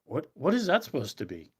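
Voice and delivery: high, loud indignant shouting; mock outraged Scots. Mocking the Scottish crew's outrage, shrill loud disbelief. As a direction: squawk it like offended Scottish crew. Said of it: "But the Scottish guys were".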